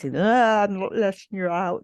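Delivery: a hint of a drunk woman's slurred taunting. Wife drunkenly refusing to unzip the suitcase, lightly slurred. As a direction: lightly mimic a tipsy slur, mocking. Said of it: "you start to hear her slurred voice".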